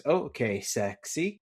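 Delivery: flat mechanical assistant voice; robot voice; Siri voice. Retold or imitated. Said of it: "in Siri's, like, mechanical voice".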